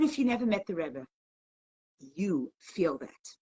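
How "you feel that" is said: drawn out, much softer and slower; softly, slowly, to the listeners. Real, not acted. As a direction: let it sink in, slow and hushed. Preacher repeats line, softer and slower.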